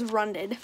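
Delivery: put-on "runded" said as a child's wrong past tense; mispronounced. Shown as a demonstration. Reader showing the kid's wrong word "runded", soft. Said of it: "she says words super wrong".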